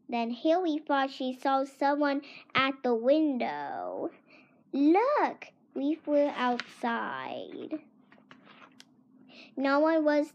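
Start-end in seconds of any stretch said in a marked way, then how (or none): 4.7-5.4 excited shout. Acted. Haley spots someone at window.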